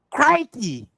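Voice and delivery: high mock-Australian exclamation; demonstrative Australian accent. Shown as a demonstration. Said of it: "It's like this".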